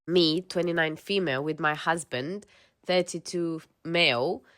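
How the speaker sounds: even-paced reading of a personal post; measured first-person narration; story read-aloud. Acted. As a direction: read it out like someone's confession. Reads a posted story aloud.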